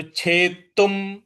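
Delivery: छेतुम with weight on the half त; stress on half t. Shown as a demonstration. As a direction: lean on the त in छेतुम. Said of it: "उस पे आपको आघात देना". (छेतुम में आधे त पर आघात)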